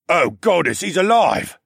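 high, loud relieved cry; excited exclamation. A narrator's reading. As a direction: burst out with joyful relief. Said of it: "exclaimed when I groaned".

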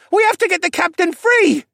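very high, loud plea; urgent yell. Acted. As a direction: yell it urgently over the storm. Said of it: "Rylan yelled".

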